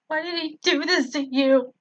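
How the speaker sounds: a touch of a desperate scream; mild acted scream. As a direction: cry out in anguish. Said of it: "I screamed out".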